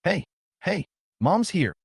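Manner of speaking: high, eager mother's reply; overjoyed. Acted. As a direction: burst out with joy. Mother overjoyed at son speaking.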